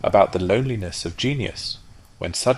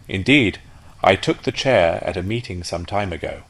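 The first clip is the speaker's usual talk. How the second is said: louder, homely duck voice; chatty duck; 2 semitones higher, 5 dB louder than usual. Acted. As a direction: prattle about your past. Duck recalls public life.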